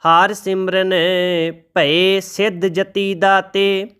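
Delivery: slow, measured reading of sacred verse; scripture recitation. Shown as a demonstration. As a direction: recite each line slowly and reverently.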